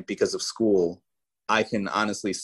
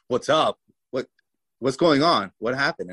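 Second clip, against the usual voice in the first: higher, louder startled questions; urgent, disbelieving what's-up, pitched up; retold alarmed questioning; 5 semitones higher, 3 dB louder than usual. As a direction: imitate relatives demanding answers in shock. Shocked family answers his call.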